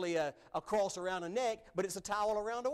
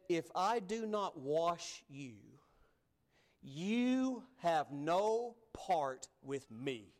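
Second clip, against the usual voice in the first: very slow, measured and grave; Jesus answering Peter, slow and solemn; much slower than usual. Acted. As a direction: let each word land gently. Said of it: "Did you hear Jesus' answer?".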